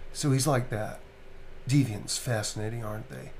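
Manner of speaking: slightly devoiced, understated delivery; lightly devoiced character voice; Kamsky, devoiced. Shown as a demonstration. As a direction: take some of the voice out. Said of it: "Kamsky's actually devoiced".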